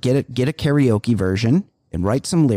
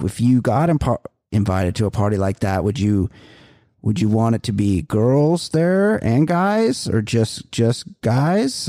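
clumsy proposition. Retold or imitated. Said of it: "very clumsily propositioning me".

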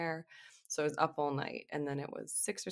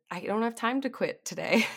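flustered protest; 7 semitones higher, 8 dB louder than usual. Retold or imitated. Retelling her flustered reply to husband.

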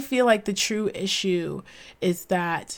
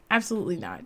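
quick, softer, laughing "Absolutely not"; amused repeat through a laugh; 6 dB quieter, much faster than usual. Real, not acted. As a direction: laugh it off, quieter and faster. Repeats answer, then laughs.

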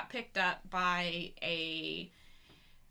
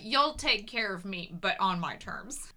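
sassy; slower than usual. Retold or imitated. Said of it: "She's like".

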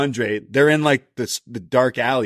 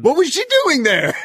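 laughing; 4 dB louder than usual. Real, not acted. Laughing disbelief at wrestling segment.

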